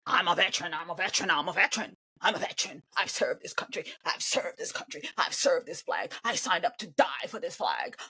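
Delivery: lightly voiced mock veteran, hushed. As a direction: mumble it like a broken record. Mimicking veteran repeating himself.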